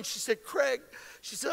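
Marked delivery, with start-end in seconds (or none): 0.4-0.8 softly imitating a crying wife; retold tearful. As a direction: say the name quietly, a touch tearful. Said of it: "And she's crying".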